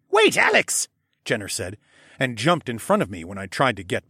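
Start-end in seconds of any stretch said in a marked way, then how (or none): 0.1-0.9 urgent call. Acted. Stopping Alex from charging.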